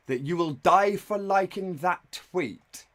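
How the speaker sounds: slow, drawn-out disbelieving read of the threat; mock dramatic read. Streamer reading the boyfriend's text aloud, slow and incredulous. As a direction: spell it out slowly like you can't believe it.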